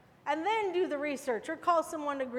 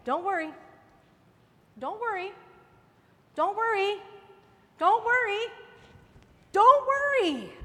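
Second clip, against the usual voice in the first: building repetition; 3 semitones higher, 6 dB louder than usual. Acted. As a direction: climb with every repeat to a full cry. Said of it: "the Lord is saying".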